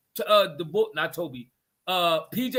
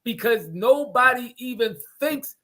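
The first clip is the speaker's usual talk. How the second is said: higher-pitched, loud exasperation; worked-up mad; 4 semitones higher, 5 dB louder than usual. Real, not acted. Arguing about a player kept in the game, mad. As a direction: argue it heatedly, hitting words hard. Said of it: "I'm coming so mad at P J".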